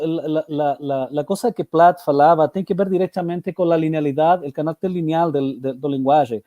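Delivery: Spanish accent, stumbling into Portuguese; Spanish speaker correcting into Portuguese; portunhol. Real, not acted.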